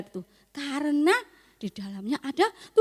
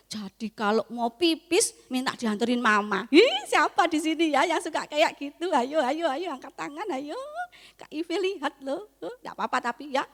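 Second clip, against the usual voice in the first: ordinary talk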